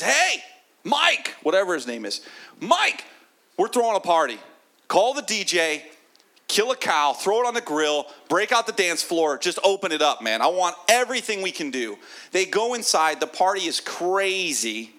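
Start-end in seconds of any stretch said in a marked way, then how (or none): 0.0-12.0 high, loud, thrilled shout to the servant; overjoyed dad yelling orders for a feast; excited father calling out. Acted. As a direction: throw the party, calling out with glee. Father calling servant, throwing party.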